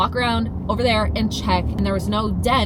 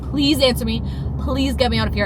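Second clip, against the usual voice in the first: pleading; 3 semitones higher, 3 dB louder than usual. Retold or imitated. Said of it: "she's not answering me".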